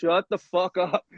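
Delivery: acted contempt; hateful exasperation. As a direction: dismiss him slowly, totally fed up. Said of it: "hates everything about him".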